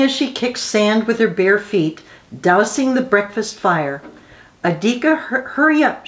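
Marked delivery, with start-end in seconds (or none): 4.6-6.1 bright higher call to hurry; cheerful call. A narrator's reading. Mother calling her son to market, cheerful. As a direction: call him cheerfully to get moving. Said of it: "she called cheerfully".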